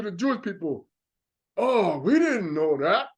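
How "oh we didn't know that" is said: mock realization. Mocking surprised Jewish people.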